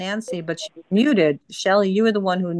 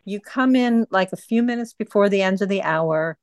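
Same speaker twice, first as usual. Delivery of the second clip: raised, tense telling-off; higher-pitched reprimand to the group; real scolding; 3 semitones higher than usual. Real, not acted. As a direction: firmly put a late member in her place. Host scolds a disruptive member.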